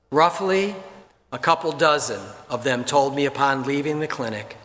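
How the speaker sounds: measured, earnest reading; steady solemn reading; reading aloud. Acted. Reads a magazine article aloud.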